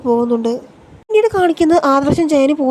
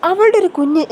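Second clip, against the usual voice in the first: scoffing, pitched up in mockery; mocking sneer; 4 semitones higher than usual. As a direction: sneer it out like a taunt. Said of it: "പരിഹസിക്കുകയാണ് Abi".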